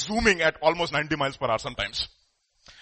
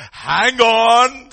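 loud, drawn-out, higher call; calling halt; 6 semitones higher, 14 dB louder than usual. Acted. God tells the hurried young believer to wait, loud halt. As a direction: call out to stop someone rushing ahead.

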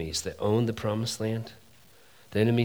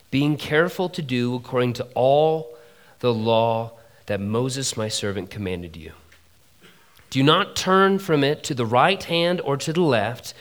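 measured scripture reading. Acted. Preacher reading Joshua to congregation, measured scripture read. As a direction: read the verses with weight.

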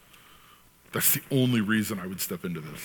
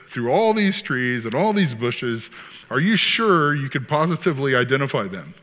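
模仿律师追问; 3 dB louder than usual. Retold or imitated. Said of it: "he's interviewing this guy".

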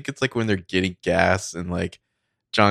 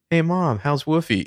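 put-on sweet kid voice; 9 semitones higher than usual. The speaker testing fake mom.

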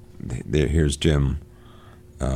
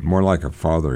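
ordinary talk

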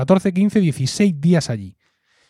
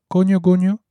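grandfather's saying; 5 semitones higher than usual. Retold or imitated. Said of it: "que decía mi abuelo Emilio".

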